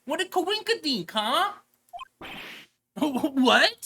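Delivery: high, bright-eyed squeal; excited girl sidekick. Acted. Sidekick gushing to Nick on the phone, high and excited. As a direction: squeal at the big coincidence.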